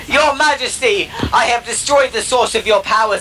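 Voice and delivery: lightly voiced brash intruder, pushing at the end; boastful Uri Geller. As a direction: announce yourself like you own the room. Uri Geller demands princess.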